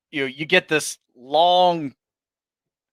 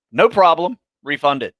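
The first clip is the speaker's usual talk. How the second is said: breezy dismissal; 3 semitones higher, 4 dB louder than usual. Retold or imitated. Replying to a long complaint email, a breezy cheerful dismissal. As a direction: brush it off cheerfully.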